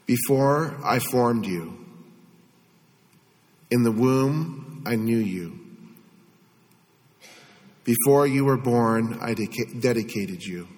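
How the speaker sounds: very slow scripture reading with long pauses. Shown as a demonstration. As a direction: read slowly, leaving a long silence after "you". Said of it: "I'm gonna read it slower".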